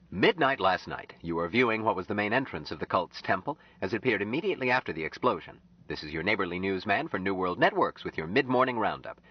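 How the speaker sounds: slick TV newsman patter; announcer voice; news broadcast. Acted. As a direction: sell it like a newscaster. TV newscast read.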